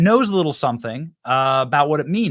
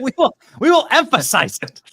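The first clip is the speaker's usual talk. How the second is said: laughing; 9 semitones higher than usual. Real, not acted. Laughing promise after the correction.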